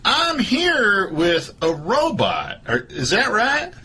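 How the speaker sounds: a hint of a daytime talk host; Doctor Phil voice. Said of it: "This is Doctor Phil".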